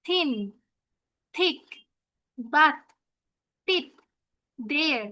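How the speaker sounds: "থিন, থিক, বাত, টিপ, দেয়ার" one at a time, TH as Bengali "থ"; teacher modelling "থ" words with pauses; TH sound demo. Shown as a demonstration. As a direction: isolate each word to show "থ". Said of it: "থ এর মতো উচ্চারণ হবে".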